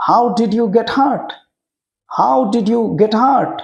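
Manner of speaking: very slow, every word drawn out for learners; drawn-out classroom model; slow teaching repeat. Shown as a demonstration. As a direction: spell it out slowly so children can follow. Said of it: "repeats slowly for learners".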